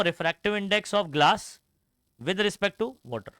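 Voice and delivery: slow, word-by-word formula reading; slow dictation. Shown as a demonstration. Teacher reads the formula slowly for students to note down. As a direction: read it out slowly so they can write.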